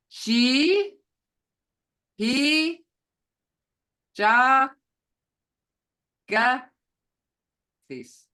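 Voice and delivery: each syllable said apart, loud. Shown as a demonstration. Teacher sounding out a word for the class, slow and syllable by syllable. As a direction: sound it out slowly, one piece at a time. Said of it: "Look at all those sounds".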